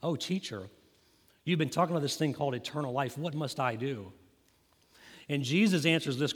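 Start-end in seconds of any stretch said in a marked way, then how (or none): 0.0-4.1 condescending. Retold or imitated. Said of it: "he's saying this condescendingly to Jesus".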